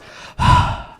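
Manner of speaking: loud mock sigh; imitating a teammate's put-upon sigh; exaggerated weary sigh. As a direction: sigh like the world is tiresome. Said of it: "he goes".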